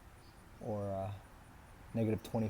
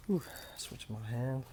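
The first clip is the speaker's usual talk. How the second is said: winded, softer puff then words; out of breath; 7 dB quieter than usual. Real, not acted. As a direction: catch breath mid-sentence. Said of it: "sorry, I'm out of breath".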